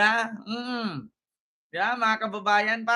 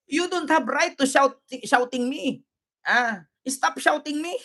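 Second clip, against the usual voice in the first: higher-pitched imitation of an indignant woman; mock protester; 3 semitones higher than usual. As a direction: mimic her scolding a guard. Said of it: "sabi niya". (panggagaya sa babaeng nagrereklamo)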